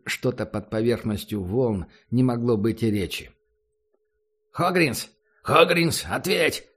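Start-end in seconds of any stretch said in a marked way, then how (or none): 4.5-6.7 shouting. Acted. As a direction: yell the name into the radio. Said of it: "прокричал в эфир".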